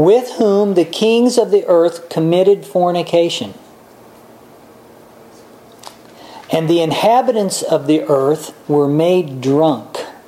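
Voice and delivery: slow, unhurried, deliberate reading, word by word. Reading a dense passage aloud to listeners, reading slowly. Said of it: "read this slow because there's a lot in here".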